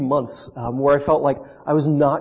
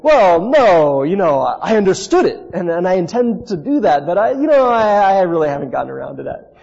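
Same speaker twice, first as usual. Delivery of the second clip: hedging excuse; 3 semitones higher, 4 dB louder than usual. Retold or imitated. Seminary student making excuses to God in prayer, hedging. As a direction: stall with wavering, stretched-out excuses.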